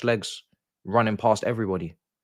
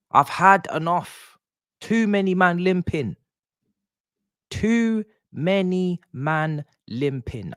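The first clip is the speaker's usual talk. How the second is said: exasperated yell; 11 semitones higher, slower than usual. Real, not acted. Fan ranting about injured players, exasperated yell. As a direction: stretch it out in fed-up disbelief.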